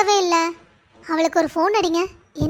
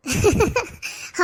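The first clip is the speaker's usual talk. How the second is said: amused laugh. Acted. Laugh after the mother's complaint.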